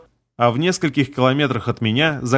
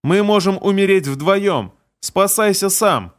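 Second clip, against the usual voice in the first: desperate plea; 6 semitones higher, slower than usual. Acted. Falling woman begs him.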